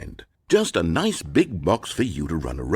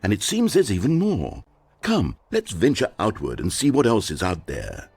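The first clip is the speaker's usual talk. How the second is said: creepy narrator voice. Acted. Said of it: "talking in that creepy voice".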